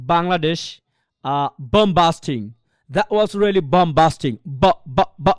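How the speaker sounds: low, slow English b in "bomb busting" and বা; foreign speakers' b. Shown as a demonstration. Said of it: "উচ্চারণটা এমন করে". ("bomb busting", ব জোরে ফুটিয়ে)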